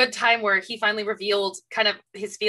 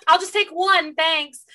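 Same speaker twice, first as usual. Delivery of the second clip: mock polite request; 8 semitones higher, 4 dB louder, slower than usual. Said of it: "Yeah, like, just".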